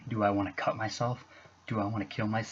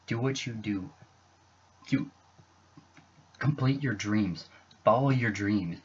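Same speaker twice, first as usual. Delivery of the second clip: building louder toward the end; a real push of encouragement; ending on an emphatic plea; rising urgent encouragement; 3 semitones higher, 4 dB louder than usual. Real, not acted. Urging viewers not to give up.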